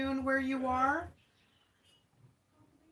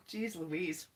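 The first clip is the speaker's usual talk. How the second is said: laughing catchphrase; 4 semitones lower, 9 dB quieter than usual. Real, not acted. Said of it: "That's how I talk".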